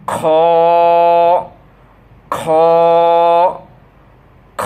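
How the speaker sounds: খ rasped thick from the back of the throat; heavy guttural kha. Shown as a demonstration. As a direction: say খ with a rough, heavy throat sound. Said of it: "খরখরা আওয়াজের সহিত মোটাভাবে".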